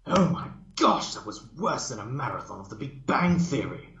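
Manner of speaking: high, loud disgusted squeal; excitable pony, grossed out and loud; Pinkie's outburst. Acted.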